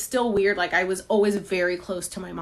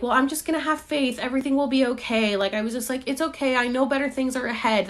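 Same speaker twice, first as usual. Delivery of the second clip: higher, chirpy forced optimism; hopeful self-talk; 5 semitones higher, faster than usual. Retold or imitated. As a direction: talk yourself into staying positive. Her old hopeful self-talk.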